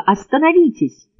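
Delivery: high, pleading second stop; man begging a woman to stop, shouting; shouted plea. A narrator's reading. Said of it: "крикнул он".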